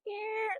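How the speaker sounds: high, soft squeezed "eh"; a small high squeak for scrunching; squishing noise. Shown as a demonstration. Imitates squishing a video shorter.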